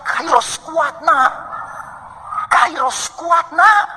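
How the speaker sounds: comforting. Retold or imitated. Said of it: "kami harus bilang".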